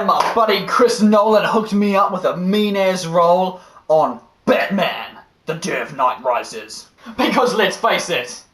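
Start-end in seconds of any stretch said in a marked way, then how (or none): 3.9-6.9 slow low growl; gravelly Batman voice. Pretend. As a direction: rasp it like Batman.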